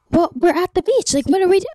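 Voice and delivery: friend's voice. Retold or imitated. Friend voiced in retold story.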